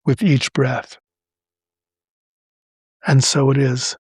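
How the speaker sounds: long pauses after each phrase; measured affirmation, leaving room to repeat; slow, phrase by phrase. Shown as a demonstration. Host leading listeners in a repeat-after-me affirmation, slowly. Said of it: "I'll say it slowly, phrase by phrase".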